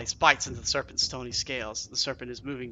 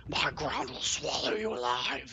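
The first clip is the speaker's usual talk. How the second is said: lightly voiced stony serpent threat; a hint of an earth serpent's menace; intoning serpent. A narrator's reading. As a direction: intone the doom steadily. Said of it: "the serpent intones".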